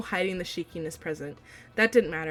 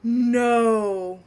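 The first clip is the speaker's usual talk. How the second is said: excited; 3 semitones higher, 4 dB louder, much slower than usual. Real, not acted. Reader reacting to a character reveal.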